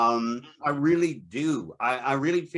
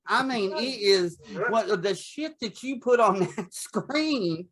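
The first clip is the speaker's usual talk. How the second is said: a hint of a scolding TV mom, sweet then cutting; Thelma Harper; 2 semitones higher than usual. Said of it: "I feel like Thelma Harper out of Mama's Family".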